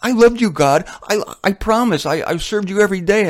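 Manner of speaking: a sinner pleading innocence before God's throne. Acted. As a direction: protest your love to God, voice up high. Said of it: "at the great white throne going".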